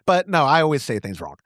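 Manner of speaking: ordinary talk, nothing marked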